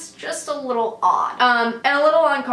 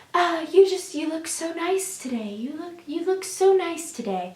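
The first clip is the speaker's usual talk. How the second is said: soft creepy compliment; 3 semitones higher, 5 dB quieter than usual. Retold or imitated. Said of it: "So then he's like".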